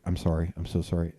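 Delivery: low, soft repeated apology; meek apology. Retold or imitated. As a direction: imitate a cowed man apologizing. Same man apologizes on being turned.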